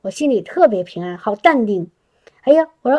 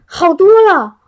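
higher and louder, amazed; amazed relief; 8 semitones higher, 6 dB louder than usual. Retold or imitated. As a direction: blurt it out in happy disbelief. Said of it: "他说".

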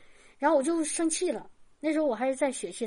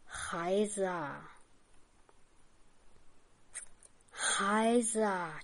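low, slow, drawn-out call, softer than her own talk; voice like a bell; 5 semitones lower, 7 dB quieter, much slower than usual. Retold or imitated. God calls her in the night, low, slow and solemn. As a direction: call each word out slowly and lower, like a distant bell. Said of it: "那个声音像钟一样".

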